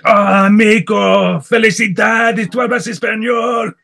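high, slow, delighted praise; hammed-up enthusiastic cheer for the learner; cheering Mexican local. Voicing supportive Mexican locals.

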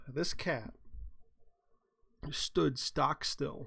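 drawn-out, very slow. Acted. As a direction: stretch each word out. Dramatic slow narration.

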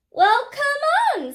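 high, slow, forceful challenge; defiant big goat. A narrator's reading. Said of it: "said the big billy goat Gruff".

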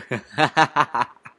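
half-hearted maniac's cackle; hammed-up mad laughter; attempted maniacal laugh. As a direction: try a villain's laugh and fall short. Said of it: "I can't laugh that maniacally".

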